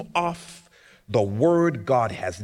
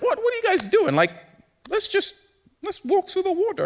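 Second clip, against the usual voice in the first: impatient God; faster than usual. Pretend.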